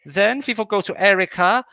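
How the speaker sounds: lightly put-on German accent, hosting; half-hearted German accent for the round; mock German accent. Host running the German round order, in a mock German accent. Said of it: "the slightly racist accent".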